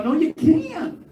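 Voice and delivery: high, incredulous scolding; mock the campers with rising disbelief; high-pitched mock outrage at lazy campers; mock exasperated. Mocking campers, voiced retort.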